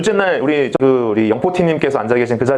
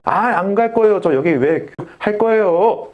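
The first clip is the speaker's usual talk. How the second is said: 떼쓰는 학생; 5 semitones higher, slower than usual. Retold or imitated.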